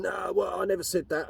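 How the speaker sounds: high-pitched nervous backpedal; lightly voiced flustered stepbrother; flustered denial. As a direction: squirm out of it.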